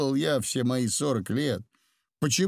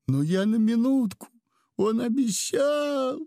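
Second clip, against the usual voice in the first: put-on higher, slower pleading girl's voice; tearful girl voice; 10 semitones higher than usual. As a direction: excuse yourself through tears like a young girl. Udalov in girl's body weeping.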